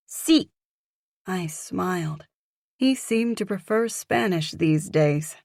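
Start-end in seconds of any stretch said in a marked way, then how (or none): 0.1-0.5 put-on small boy voice. A narrator's reading. Little boy answers.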